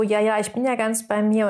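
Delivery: quick, offhand brush-off; dismissive. Shown as a demonstration. Coach mimicking how people casually claim focus, offhand. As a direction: toss it away like you don't mean it. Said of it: "oftmals sagt man sich das so".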